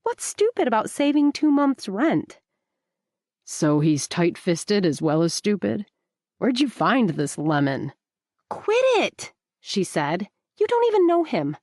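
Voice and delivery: a light rebuke with a push of annoyance; narrator's Rebecca telling Booker off; Rebecca, scolding. A narrator's reading.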